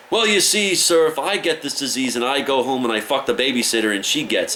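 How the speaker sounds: put-on high, loud childish explaining; the nine-year-old explains his plan to the officer: high childish voice; kid's voice. High, loud mock child.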